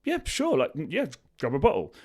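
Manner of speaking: a people pleaser cheerfully giving in; eager people pleaser. Retold or imitated. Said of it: "you're like".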